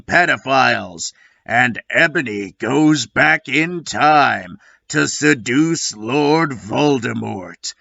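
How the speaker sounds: a hint of movie-trailer gravel; gravelly voice. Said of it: "let Gravelly Voice take it from here".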